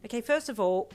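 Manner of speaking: high, loud lead-in; exasperated yell. A narrator's reading. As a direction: begin the rant exasperated. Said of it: "her sister yelled in exasperation".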